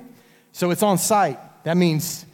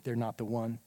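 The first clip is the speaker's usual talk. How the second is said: doubting inner voice; 4 semitones lower, 9 dB quieter than usual. Retold or imitated. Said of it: "that voice saying".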